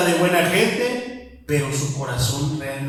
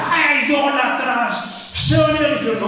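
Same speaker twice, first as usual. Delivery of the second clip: a hammed-up preachy scolding; mock self-righteous scold; 8 semitones higher than usual. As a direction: sneer like a judgmental churchgoer. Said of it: "Y más que yo decía".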